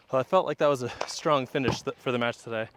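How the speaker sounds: winded, breathing hard; out of breath after running. Real, not acted. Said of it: "catching my breath".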